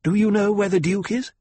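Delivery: high, loud peremptory question; demanding. A narrator's reading. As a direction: demand an answer from the guard. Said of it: "she demanded".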